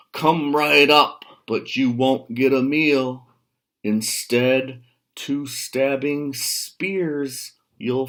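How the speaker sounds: loud, slow, commanding goat voice; big goat's challenge. Acted. Biggest billy goat dares the troll to come up. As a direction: lay down the challenge, slow and heavy. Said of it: "He answered in his deep voice".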